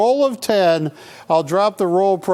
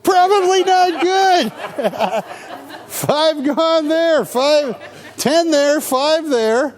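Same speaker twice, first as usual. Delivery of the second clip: high, slow laughing count; 10 semitones higher, slower than usual. Real, not acted. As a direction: count sales, giggling.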